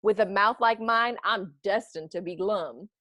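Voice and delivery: a lightly voiced pouty fish; glum fish reply. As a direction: plead like a sulky fish. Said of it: "says the fish to his friend".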